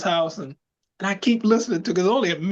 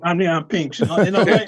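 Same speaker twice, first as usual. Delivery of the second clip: Leon Spinks voice; 4 dB louder than usual. Retold or imitated. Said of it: "I started doing the Leon Spinks imitation".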